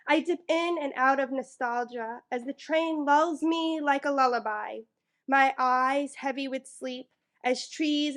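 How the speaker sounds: measured poem recital, lightly performed; poetry reading. Acted. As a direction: read it like a slam poem to the room. Reads her poem aloud.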